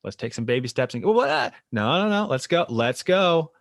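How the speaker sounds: put-on upbeat coach urging baby steps, loud and high; pushy therapist. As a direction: voice a therapist cheerfully pushing a client on. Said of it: "The therapist's like".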